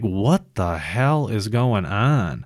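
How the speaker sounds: drawn-out, incredulous reaction; slow, appalled question; exasperated disbelief. Retold or imitated. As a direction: stretch each word in disbelief. Acted exasperated reaction to kids with phones.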